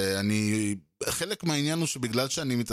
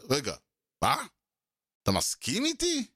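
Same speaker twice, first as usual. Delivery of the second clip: surprised disbelief; 2 semitones higher than usual. Retold or imitated. Other side realizes he agrees.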